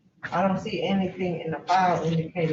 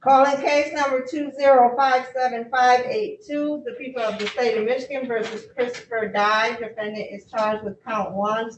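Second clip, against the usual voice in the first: official courtroom read-out; formal case call. Real, not acted. Clerk calling a case before the judge, formal announcement. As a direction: read the charges formally into the record.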